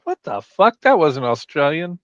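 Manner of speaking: put-on indignant friend in an Australian accent; hammed-up Australian disbelief; mock Australian objection. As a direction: imitate an Australian taking offence. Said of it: "ping me and say".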